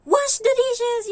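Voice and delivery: high, slow shouted command; mock yell. Imitating the boss screaming chores at the maid. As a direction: bark it like a tyrant boss. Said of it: "puro siya sigaw".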